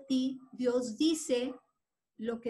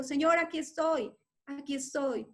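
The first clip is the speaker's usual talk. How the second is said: crying out; 3 dB louder than usual. Acted. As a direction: lift the voice to be heard. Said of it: "empezó a gritar".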